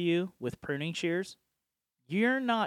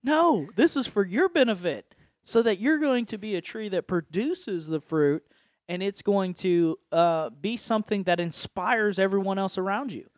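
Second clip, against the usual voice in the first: higher, insistent reassurance; lightly voiced God; 4 semitones higher, 3 dB louder than usual. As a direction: insist as God that it's for their good. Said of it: "And God's like".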